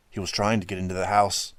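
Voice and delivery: ordinary delivery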